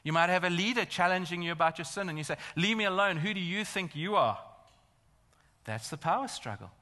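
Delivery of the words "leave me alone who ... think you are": raised, loud mock indignation; acted defensive retort, high and forceful; defiant rebuff. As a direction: snap back at someone challenging you. Imagined sinner rebuffs challenging leader.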